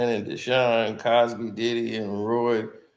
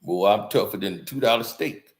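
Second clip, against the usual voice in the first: a hint of Shannon bragging how tough he is; Shannon Sharpe impression; 3 semitones lower than usual. Streamer imitating Shannon boasting to Shaq, lightly lower country voice. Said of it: "Shannon Sharpe even talking about".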